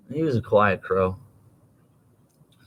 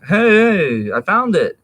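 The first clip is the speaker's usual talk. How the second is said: put-on excited kid; 8 semitones higher, 5 dB louder, slower than usual. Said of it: "I'm like".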